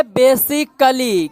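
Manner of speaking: बेसिकली slowly, "bay-sik-lee"; pronunciation demo. Shown as a demonstration. Teacher showing how to say it, slow बेसिकली as "bay-sik-lee". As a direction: model बेसिकली part by part. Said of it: "इसको क्या बोलेंगे".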